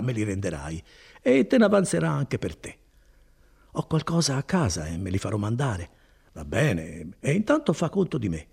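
lightly voiced kindly cousin, proud of his work; Bortolo. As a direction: warm and boastful, an easy hearty tone. Bortolo offers his money. (Bortolo rassicura Renzo, voce bonaria appena accennata)

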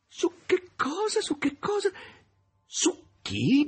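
high, slow, laughing repeat of the question; Volant's booming laughter through the words. Acted. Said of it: "disse Volant e smise di ridere".

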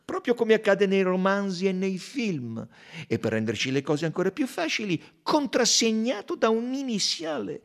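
amused Belgian sleuth pointing out the clue; Poirot's voice. A narrator's reading.

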